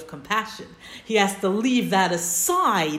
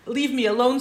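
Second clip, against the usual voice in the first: emphatic divine command; 4 semitones higher, 5 dB louder than usual. Shown as a demonstration. Teacher voices God's demand to Moshe, louder and higher. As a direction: Leave said higher and louder, rising on the end.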